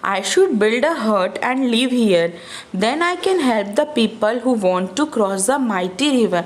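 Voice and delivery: put-on slow, careful read-aloud for kids; slow storybook reading. A narrator's reading. Storyteller reading Ofrio's thought to children, slow and clear. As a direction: read each word out slowly to the children.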